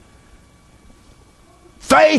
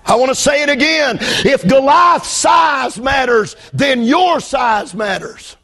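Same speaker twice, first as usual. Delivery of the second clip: shouted, rhythmic sermon cadence; full force preaching; 3 semitones higher, slower than usual. Acted. Preacher shouting at the congregation about Goliath, full force preaching. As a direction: hammer each line home to the church.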